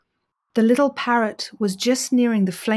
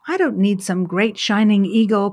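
coughing; 3 dB louder than usual. Acted. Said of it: "coughed the little parrot".

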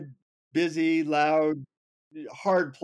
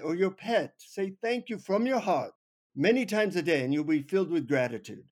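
put-on instructing guru with an Indian accent, pitched up; 4 semitones higher than usual. Guru teaches the traveler to say thanks, in an Indian accent. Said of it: "in his Indian accent".

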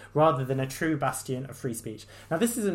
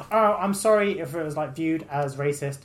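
higher, louder mocking fake apology; 3 semitones higher, 6 dB louder than usual. Vlogger mocking councillor's apology, louder sneering mock voice. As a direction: sneer at the insincere sorry.

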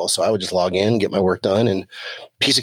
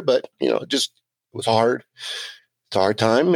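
real emotion welling up, voice catching a little; holding back tears while speaking of a hard time; getting emotional. Real, not acted. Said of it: "I'm getting a little emotional here".

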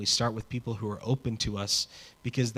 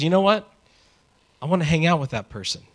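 higher, quicker eager aside; 6 semitones higher, 5 dB louder, faster than usual. Acted. Someone spotting a person they like, eager and higher. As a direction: blurt it out like you've just found a new friend. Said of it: "Someone looks at you and says".

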